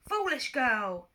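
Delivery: a touch of a booming war god; slow scornful rebuke; war god's scorn. Acted. War god scorns kneeling Clarice, slow booming rebuke.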